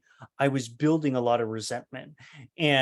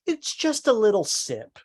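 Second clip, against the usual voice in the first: higher voice, playing it down; high-pitched mock excuse; imitated dismissive mother; 8 semitones higher than usual. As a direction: make light of it as a mother caught out.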